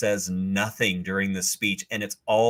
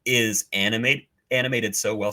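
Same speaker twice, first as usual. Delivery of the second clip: talking through hiccups; words broken by hiccups. Real, not acted. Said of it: "Sorry, I got the hiccups".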